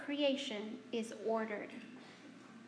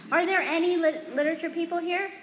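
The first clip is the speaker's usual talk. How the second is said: higher, louder call to the room; louder repeat; 5 semitones higher, 4 dB louder, faster than usual. Real, not acted. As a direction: ask the audience again, projecting. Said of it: "repeats question louder".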